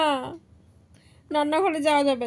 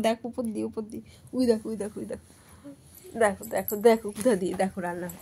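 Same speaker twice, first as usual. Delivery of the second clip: soft, low cooing to the pet; pet talk; 4 semitones lower, 4 dB quieter, faster than usual. Real, not acted. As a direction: coax the little one gently. (পোষ্যকে নরম গলায় আদর করে বলা)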